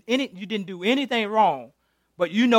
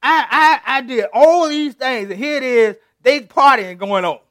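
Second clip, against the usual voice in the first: mad Moses; 3 semitones higher, 5 dB louder than usual. Acted. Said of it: "So he mad".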